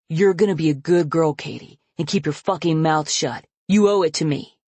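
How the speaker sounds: father threatening his daughter into silence; menacing threat. Acted. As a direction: press each word as a threat.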